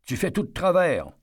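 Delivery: loud, high call to the guard; shouting. A narrator's reading. Eddie shouts at the guard, loud and high. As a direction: yell it across to the guard. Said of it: "Eddie criait déjà au garde".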